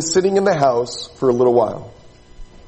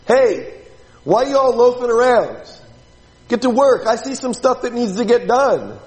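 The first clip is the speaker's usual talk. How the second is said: lightly voiced ranch boss, raised pitch; rancher boss; 5 semitones higher than usual. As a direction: lightly act a boss getting on the workers. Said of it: "just like a rich, wealthy rancher, farmer would".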